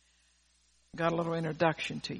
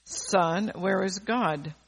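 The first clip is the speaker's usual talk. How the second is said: a slightly louder, firmer repeat of "where is God"; firmer, louder pastor; much slower than usual. Retold or imitated. Preacher retelling the pastor pressing the boy, a touch firmer and louder. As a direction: press the boy a bit harder, mildly raised. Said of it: "a little firmer and louder".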